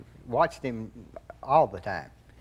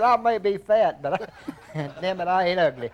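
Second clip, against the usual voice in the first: laughing boast; 5 semitones higher, 3 dB louder than usual. Retold or imitated. A singer quoted, laughing.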